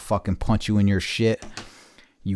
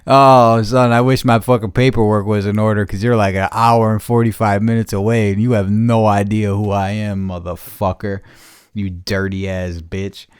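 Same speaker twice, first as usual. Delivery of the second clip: louder heated threat; angry rant; 5 dB louder than usual. Real, not acted. Cursing out the rival who lives far away. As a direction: threaten him hotly.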